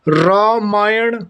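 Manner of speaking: रामायण said slowly with clear syllables; slow pronunciation demo. Shown as a demonstration. Teacher reading रामायण slowly to the class. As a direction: ease रामायण out slowly, each syllable apart. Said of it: "यानी कि अशुद्ध और शुद्ध".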